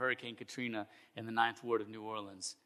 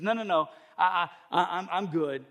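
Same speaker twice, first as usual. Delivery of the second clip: acted stammering brush-off, raised pitch; lightly played stubborn believer; insistent refusal; 4 semitones higher, 5 dB louder than usual. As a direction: wave off help with confident, stuttered protests. Man refusing neighbor's rescue.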